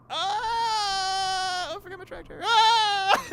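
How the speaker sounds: high, loud cartoon screaming; imitated screaming. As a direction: scream it like a panicked showoff. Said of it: "it's just, you know, screaming".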